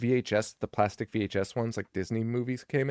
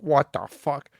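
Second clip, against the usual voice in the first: mock furious yell; 3 semitones higher, 5 dB louder, slower than usual. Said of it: "The mom is furious, yelling at him".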